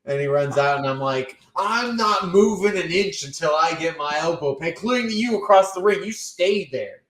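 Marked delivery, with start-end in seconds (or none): 1.6-7.0 stubborn, slightly raised playful protest; mock indignation. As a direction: dig your heels in, mock-outraged. Acted mock tantrum at ring crew.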